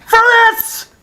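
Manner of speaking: high, loud disbelieving scream; outraged shriek. Real, not acted. Fan shrieking at the team's new name, outraged.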